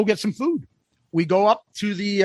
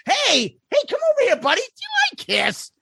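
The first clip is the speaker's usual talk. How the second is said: mock friendly call. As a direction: call him over sweetly to annoy your friend. Needling friend by calling guy over.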